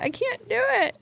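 high, whiny mock-pathetic wail; whiny confession. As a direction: play it as a pitiful little kid. Admitting failure to mentor, self-mocking.

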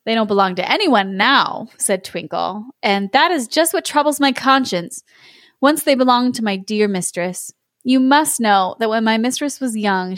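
measured storyteller with a troubled conscience; lightly voiced Twinkle. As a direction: unfold the confession like a fairy tale. Voices Twinkle telling his tale.

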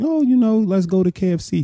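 high sing-song girlfriend imitation; imitating girlfriend. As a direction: pitch way up, playful and inviting. Retold girlfriend inviting him out.

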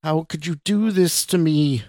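high, strained cry at contained volume; mock scream. A narrator's reading. Woman screams at terrified Scott, contained high scream. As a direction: scream it in pitch, holding the volume back. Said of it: "this time in a scream so loud".

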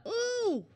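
high, soft squeamish "ooh"; disgusted "ooh". Retold or imitated. Undercover officer hearing a client's foul request, squeamish ooh. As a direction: recoil with a high-pitched ooh.

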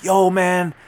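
loud, high-pitched imitation of hyped-up guys; adrenaline-pumped yelling. Passengers telling the rider he almost got hit, yelling on adrenaline. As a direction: shout it like an amped witness. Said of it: "hopping up and down on adrenaline".

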